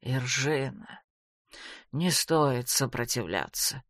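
low, slow and cold; cold remark. A narrator's reading. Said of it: "холодно обронил он".

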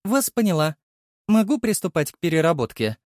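gentle female voice. Acted. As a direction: speak kindly as the AI helper. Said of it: "Женский голос ласково сказал".

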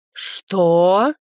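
a sharp startled man's Что; hoarse male voice. A narrator's reading. The rector overhears the insult through the door, lightly voiced hoarse man. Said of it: "хриплый мужской голос".

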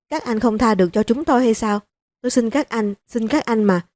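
mild tearful plea, not full sobbing; an old mother-in-law begging the police, lightly tearful; tearful pleading. Acted. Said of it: "bật khóc thành tiếng".

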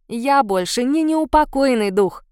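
slow, grimly smirking. Acted. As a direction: say it with a dark grin. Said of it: "с мрачной усмешкой".

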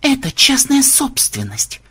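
high, slow outraged holler; yelling. A narrator's reading. Vampire shouting at trespassers from tower, outraged yell. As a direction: yell indignantly, stretching the words. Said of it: "продолжал орать ксенобайт".

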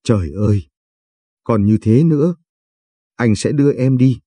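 cry out. A narrator's reading. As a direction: burst out in dismay. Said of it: "Kha kêu lên".

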